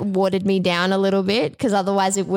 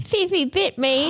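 surprised; 7 semitones higher, slower than usual. Real, not acted. Pet bites, surprised cry.

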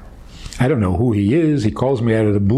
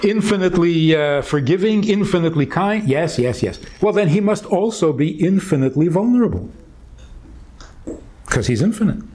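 raised pitch, pressing each question, losing patience; impatient; 5 semitones higher than usual. Retold or imitated. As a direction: push him with quick impatient questions. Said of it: "So I said impatiently".

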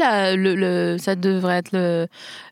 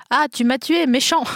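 whiny dying king; 5 semitones higher than usual. Retold or imitated. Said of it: "le commentaire qu'il lui a fait à son agresseur".

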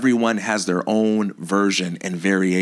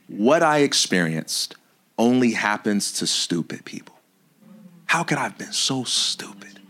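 hushed, ashamed inner voice; whispered self-blame; 2 semitones lower than usual. Retold or imitated. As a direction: whisper it like a private shame. Voicing self-blaming inner story.

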